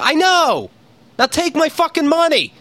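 exasperated shout. Retold or imitated. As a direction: yell at the phone menu. Furious at phone menu.

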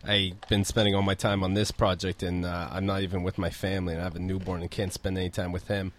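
low, soft, mock-weary confession; imitating a downcast employee. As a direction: mumble it like a worn-out new parent. Acting out applicant's downcast complaint.

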